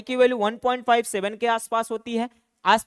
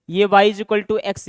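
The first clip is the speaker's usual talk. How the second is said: each word of the equation spelled out slowly; dictating slowly so the class can write it down; slow dictation; 5 dB louder, much slower than usual. Shown as a demonstration. Teacher dictating to students, slow and deliberate.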